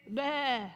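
quiet mock bleat; a small sheep baa of giving in; soft sheep bleat. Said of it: "let that stubbornness go and say".

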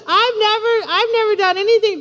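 high-pitched mock whine; whiner. Older son protesting to his father, whining. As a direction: protest like a wronged goody-goody. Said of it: "Talk about a whiner".

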